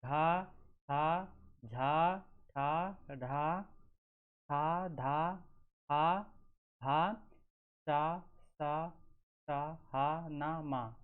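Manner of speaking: syllables sounded out one by one, breathy ones aspirated; teacher sounding out. Shown as a demonstration. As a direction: say each aspirated consonant with its puff of air. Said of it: "जैसे".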